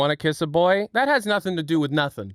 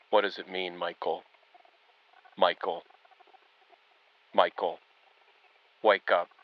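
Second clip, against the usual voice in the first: low, eerie horror-story voice; haunting low summons, short calls with long gaps; creepypasta voice; 10 semitones lower than usual. Pretend. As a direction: call to a sleeper in a deep, creepy monotone. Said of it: "creepypasta office".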